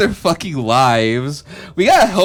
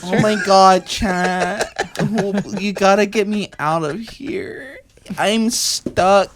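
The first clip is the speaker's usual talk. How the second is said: slightly higher, hammed-up sultry plea; half-sexy damsel in distress, played for laughs; mock sexy plea; 4 semitones higher than usual. Captive begging chat for rescue, mock sexy. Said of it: "Did I sound sexy?".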